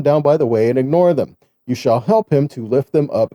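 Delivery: measured, formal Bible reading; scripture reading. Acted. Preacher reads scripture to the congregation, measured and formal. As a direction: read the law out steadily.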